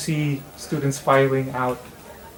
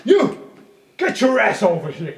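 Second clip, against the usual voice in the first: enraged yelling through a door, much higher and louder; screaming conductor losing it; furious shouting; 10 semitones higher, 3 dB louder than usual. Acted. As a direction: bellow at the trombone player. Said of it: "And you just hear".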